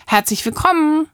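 lifted, sugary greeting; sweet purring welcome. Acted. Greeting arriving guests, sweetly purring. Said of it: "säuselt sie schließlich".

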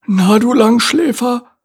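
a high, good-natured caterpillar grumble, slow. A narrator's reading. Caterpillar teasing his sleepy friend, good-natured grumble. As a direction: tease the late sleeper kindly. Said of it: "brummte Randolph gutmütig".

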